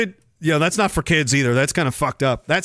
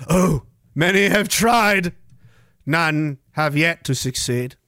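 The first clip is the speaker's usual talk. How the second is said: cryptic storyteller; 3 semitones lower than usual. Acted. Host answering how to beat the spider, mock-portentous.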